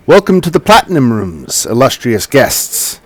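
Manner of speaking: tiefling voice. Acted. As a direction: greet the guests like a polite tiefling host. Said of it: "the tiefling says".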